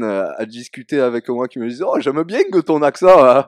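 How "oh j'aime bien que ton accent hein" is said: high, loud overdone fake southern accent; mock southern accent. Other French people teasing a southerner, overdone fake southern accent. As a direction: imitate outsiders aping a southern accent. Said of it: "quand les autres résidents de France".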